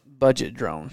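budget said in two full syllables, BUD-jet; budget clearly. Shown as a demonstration. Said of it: "budget drone or budge drone".

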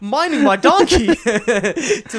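hammed-up South African accent, high and loud; slow, laughing South African accent. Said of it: "That's more of, like, a South Af".

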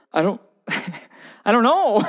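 laughing nervous reply; a flustered, giggly answer. Retold or imitated. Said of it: "And I was like".

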